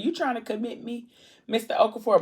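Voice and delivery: mock protest. Patient to Mister Okafor at the hospital, mock protest. Acting book character questioning him.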